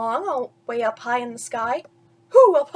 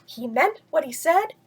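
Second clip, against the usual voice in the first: mildly raised, cheering voice; excited crowd; 3 semitones higher than usual. Acted. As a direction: cheer the elephant bird on. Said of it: "they shouted".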